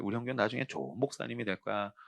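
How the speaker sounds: soft, low, gentle mother's voice; tender mother. Retold or imitated. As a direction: soothe him like a praying mother. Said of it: "우리 엄마 늘 그랬어요". (훨씬 부드럽고 조용한 어머니 목소리)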